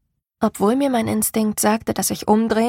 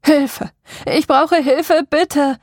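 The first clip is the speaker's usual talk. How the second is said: higher, loud desperate cry for help; sudden scream for help; 6 semitones higher, 5 dB louder, slower than usual. A narrator's reading. Voice calling from the woods screams desperately for help. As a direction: yell it out across the wet forest. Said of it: "den plötzlichen Schrei".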